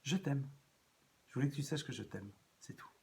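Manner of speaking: tender. Shown as a demonstration. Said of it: "comme disait l'autre".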